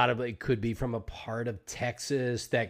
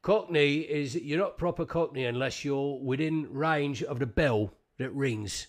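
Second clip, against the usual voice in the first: lightly done London Cockney; Cockney accent. Acted. Host explaining what Cockney is, in Cockney accent. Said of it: "you know, Michael Caine".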